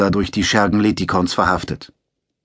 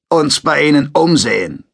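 lightly voiced brusque sergeant, higher and louder; 6 semitones higher, 5 dB louder than usual. A narrator's reading. Sergeant brushes past Takson into his house, mildly brusque. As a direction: push the line like a rough soldier.

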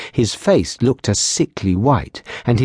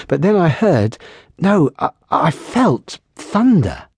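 higher, stammering frightened voice; nervous young patrolman; 7 semitones higher than usual. Acted. Frightened patrolman begging the lieutenant for a word, higher and stammering. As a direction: plead for a word, shaken.

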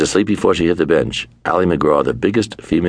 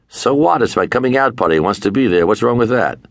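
pushy Korshak; 8 semitones higher than usual. Retold or imitated. Korshak on the phone, insisting Pacino comes, indignant and pitched up. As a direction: push back hard, indignant.

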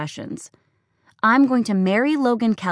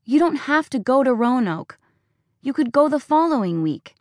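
higher, shrill-edged accusing rant; furious, hurt daughter; 4 semitones higher than usual. Acted. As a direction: pour out every grievance. Daughter's tearful tirade.

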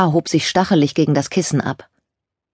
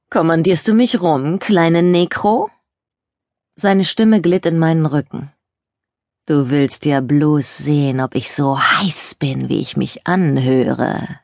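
cocky slow flirt; slower than usual. Acted.

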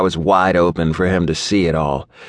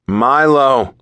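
sharp, loud scolding of the name; 6 semitones higher, 5 dB louder than usual. A narrator's reading. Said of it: "he scolded".

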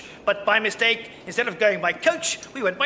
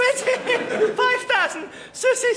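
high, slow shocked squeak; shocked squeal; 12 semitones higher, slower than usual. Acted. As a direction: squeal the price in disbelief. Shocked at the huge fare.

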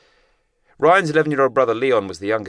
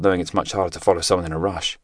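ordinary delivery

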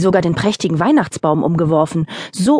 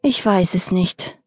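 sad. Acted. Mother fox comforting her cub, mildly sad. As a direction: let it sink, mildly sad. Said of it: "sagte traurig".

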